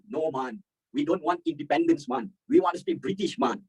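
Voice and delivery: mock Jamaican patois, high and slow; Jamaican accent. Teacher imitating Jamaicans refusing independence, slow Jamaican accent. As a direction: drawl it like a laid-back Jamaican islander. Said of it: "Kamu tahu apa yang orang Jamaica cakap?".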